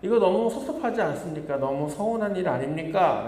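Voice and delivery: hammed-up grumbling about unfair pay; indignant complaint. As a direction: play the wronged worker, pleading his case. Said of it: "라고 불평을 하는 것입니다".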